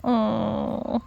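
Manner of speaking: tender adoration. Real, not acted. Adoring the dog.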